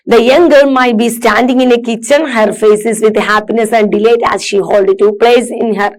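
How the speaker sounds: slow, careful read-aloud for students; measured classroom reading. Acted. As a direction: read each word out slowly and clearly. Reads picture description aloud.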